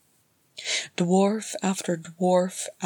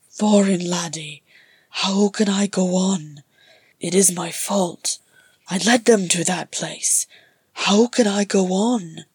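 louder, pleading in despair; anguished guilt; 6 dB louder than usual. Acted. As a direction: cry out in helpless guilt. Balin breaking down in guilt.

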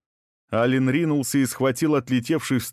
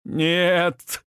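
a raw, high wail of denial; anguished yell; 8 semitones higher than usual. A narrator's reading. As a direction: scream it out as she falls. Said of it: "завопил Кори".

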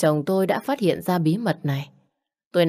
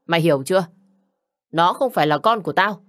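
louder, furious husband confronting his wife; angry accusation; 4 dB louder than usual. Acted. Husband furious at his wife over the paternity test, loud and accusing. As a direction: hurl the accusation at her.

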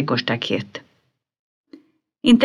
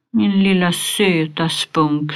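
tenderly; slower than usual. Acted. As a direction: coo gently over a little pet. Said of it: "sa hon ömt". (Pippi talar ömt och långsamt till skalbaggen)

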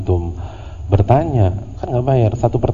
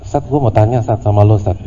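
rude, curt asking; faster than usual. Retold or imitated. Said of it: "antum yang jutek gimana kira-kira".

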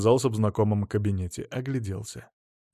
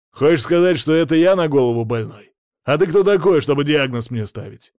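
indignant shout; 4 semitones higher, 6 dB louder than usual. Acted. Millionaire furious at accusation.

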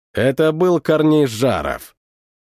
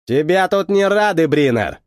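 through clenched teeth. Acted. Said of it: "процедил Жаров".

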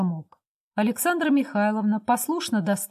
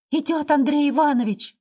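breathless shout; 6 semitones higher, 4 dB louder than usual. A narrator's reading. Girl bursting in to warn that the husband is coming, shouting breathlessly. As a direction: shout it higher and louder, out of breath. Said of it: "крикнула она, задыхаясь".

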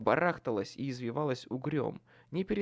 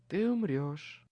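sweet purr; slower than usual. A narrator's reading. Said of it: "сладко промурлыкала Лидия".

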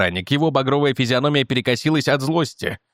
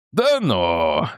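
feigned surprise; 7 semitones lower than usual. A narrator's reading. Guard mocking the man's request with fake surprise. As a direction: pretend to be amazed, shouting it. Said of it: "притворно удивился охранник".

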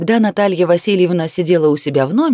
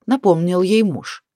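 usual speaking voice

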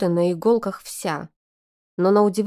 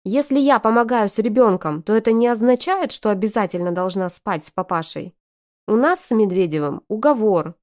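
hissing; 2 semitones higher, 4 dB louder than usual. Acted. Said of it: "снова зашипела на братьев".

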